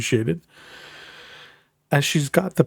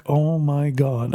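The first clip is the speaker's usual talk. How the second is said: slow, drawn-out oh my God; retold dismay; 3 semitones higher, slower than usual. Husband reacts to wife's scandal, slow exasperated dismay. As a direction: draw it out in mock dismay.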